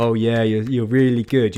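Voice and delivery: mock-sarcastic, exaggerated sarcastic tone. Recounting a man's reply, the speaker retells sarcastic praise. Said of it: "he claps sarcastically".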